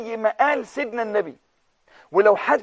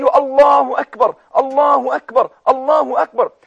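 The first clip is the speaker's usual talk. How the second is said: joyful takbir; 3 semitones higher, 5 dB louder than usual. Retold or imitated. Preacher retelling the Prophet's joyful answer, loud takbir. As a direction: ring it out in joy. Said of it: "وكأن النبي فرح".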